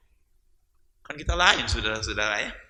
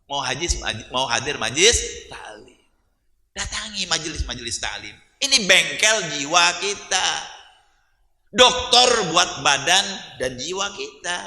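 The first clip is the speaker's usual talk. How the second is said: very slow and deliberate; slow exhortation; 5 semitones lower, much slower than usual. Acted. Preacher urging the audience to attend study circles, very slow. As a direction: drag each word to drive it home. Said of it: "slow emphatic exhortation".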